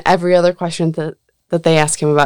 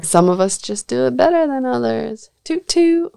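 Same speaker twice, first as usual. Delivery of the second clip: smug bragging; 7 semitones higher than usual. Pretend. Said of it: "That horn".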